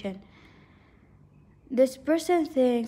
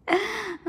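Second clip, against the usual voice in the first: amused laugh; 10 semitones higher than usual. Real, not acted. Amused by the harsh teasing.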